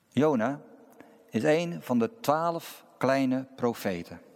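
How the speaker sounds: measured preaching with long, weighty pauses; sermon opening. Acted. Preacher tells the congregation about Jonah, measured sermon delivery. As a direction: set out each phrase deliberately and let it land.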